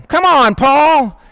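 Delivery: mildly exasperated protest; mad. Acted. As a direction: act out annoyance, pleading for him to back off. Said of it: "They were mad at him".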